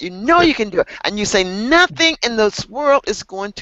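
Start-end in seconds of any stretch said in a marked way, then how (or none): 1.4-3.6 passionate, fired-up, determined declaration. Showing a learner how to say it to the camera: passionate. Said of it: "You gotta be passionate".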